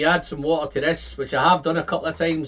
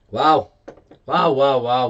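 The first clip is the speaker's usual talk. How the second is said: louder stacked wows; can't contain the thrill; excited wows; 4 dB louder, slower than usual. Real, not acted. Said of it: "I'm getting too excited".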